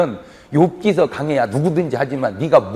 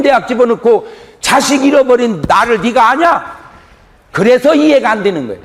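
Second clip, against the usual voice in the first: forceful preaching; 8 semitones higher, 4 dB louder than usual. Acted. Preacher presses the congregation about shared suffering, forceful. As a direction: drive the point home to the congregation.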